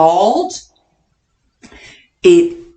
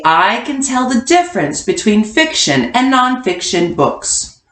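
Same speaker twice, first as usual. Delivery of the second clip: statement read-aloud. Shown as a demonstration. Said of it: "our I can statement is gonna be".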